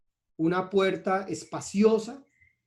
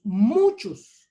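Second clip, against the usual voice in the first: "muchos" stretched out, higher and louder; stress on "muchos"; 4 semitones higher, 8 dB louder than usual. Real, not acted. Preacher reading scripture to the congregation, stressing "muchos". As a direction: hit "muchos" hard and draw it out. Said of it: "Y enfatizo en la palabra muchos".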